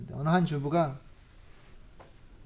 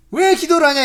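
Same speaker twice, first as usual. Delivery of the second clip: loud, higher mock scolding; mock scolding mother-in-law; 9 semitones higher, 12 dB louder than usual. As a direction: snap at her like a sour mother-in-law. (며느리를 꾸짖는 시어머니 흉내, 크고 높게)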